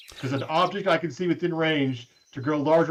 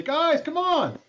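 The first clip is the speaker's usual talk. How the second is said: urgent; 12 semitones higher, much slower than usual. Acted. Character urges friends.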